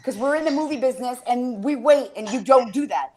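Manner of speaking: hammed-up stern order, slowing on the words; scolding comedian friend. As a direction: boss the room into staying for the credits. Friend's brother scolds the audience.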